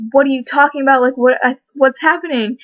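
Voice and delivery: imitating her mom's panicked questions; mock-panicked, pitch climbing; mom freaking out. Mom panicking at the sudden delivery news, in a mildly panicked voice. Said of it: "like, freaking out".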